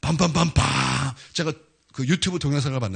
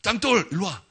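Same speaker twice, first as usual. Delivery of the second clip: calling Peter over, a bit higher; playful shout of a nickname; calling out playfully; 6 semitones higher, slower than usual. Retold or imitated. Jesus calling Peter over by nickname, playful call. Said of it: "베드로는".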